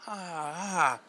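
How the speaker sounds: soft mock "ah, ah"; quiet drawn-out imitated gasp; kid's gawking gasp. Kid watching through the restaurant window, soft mock gasp. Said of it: "He's like".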